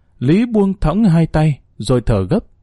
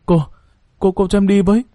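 higher, stammering nervous request; trembling plea; 6 semitones higher, faster than usual. A narrator's reading. Student timidly begging the teacher to come along, trembling. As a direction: falter on the first word, then plead. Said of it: "Lý nói run run".

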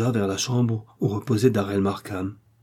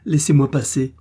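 ordre pressant; 5 semitones higher, 5 dB louder than usual. Acted. Millicent forces way past.

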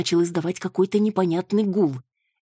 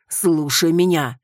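louder and slow, commanding; almost shouting; 2 semitones higher, 6 dB louder, slower than usual. Acted. Руслан trying to stop Маруся, almost shouting. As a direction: cut her off, nearly yelling. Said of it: "почти кричал Руслан".

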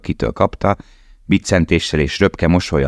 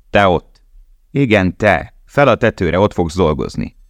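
calling out; 3 semitones higher than usual. Acted. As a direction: shout up to him. Calling out to Lale.

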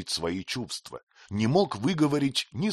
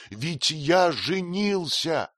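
higher and very slow, savouring it; a young husband sharing his news; joyful announcement; 7 semitones higher, much slower than usual. A narrator's reading. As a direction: announce it proudly, stretching each word. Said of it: "запустив снова обе руки себе в волосы".

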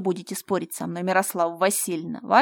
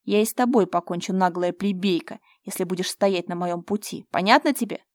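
menacing rant; 7 dB louder than usual. Acted. Fyodor threatens Mira, loud and gloating.

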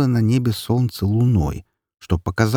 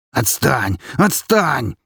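rising shout; 6 semitones higher, much slower than usual. Acted.

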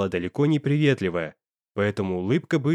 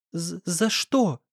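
frightened stutter; 5 semitones higher, much slower than usual. A narrator's reading. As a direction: stammer it out in terror, slowly. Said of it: "бледнее и заикаясь спросила она". (испуганно, заикаясь, медленно)

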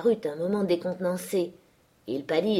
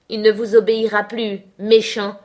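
loud, high, angry defiance; indignant girl standing up to the master; defiant outburst; 4 semitones higher, 9 dB louder than usual. A narrator's reading. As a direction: hurl it back at the bully. Girl defies the furious master.

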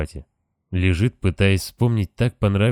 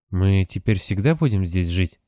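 put-on child voice. Child asking the sphinx.

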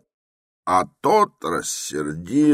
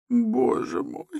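exclaiming; slower than usual. A narrator's reading. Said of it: "вскричала Пульхерия Александровна".

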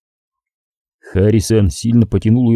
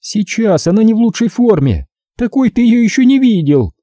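higher, taunting woman's voice full of contempt; gloating female captor; 11 semitones higher than usual. A narrator's reading. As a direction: sneer it at the rich man, pitched up. (злорадная похитительница, высоким голосом)

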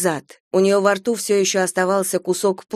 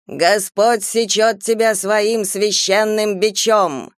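bellowing priest; slower than usual. Acted. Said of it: "Отец Уондерли проорал".

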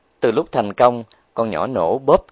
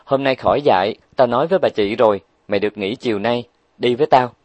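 ordering; faster than usual. Acted. Huệ Linh orders her friend to skip teaching, bossy. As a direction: give orders to a friend who owes you. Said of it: "Cô nàng nói như ra lệnh".

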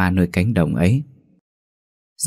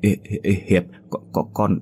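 cà lăm vì sợ, bật mạnh ở cuối; nói đứt quãng như đang tập nói; lắp bắp từng tiếng. Acted. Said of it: "lẩm bẩm nói từng tiếng như tập nói". (run rẩy lẩm bẩm từng tiếng)

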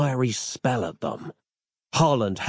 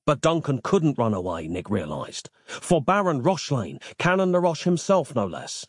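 ordinary delivery

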